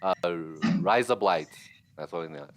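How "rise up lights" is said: amateur Aussie accent; attempted Australian accent. Shown as a demonstration. Friend who cannot do accents tries, amateur Australian accent. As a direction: have a limited go at sounding Australian. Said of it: "cannot make an Australian accent".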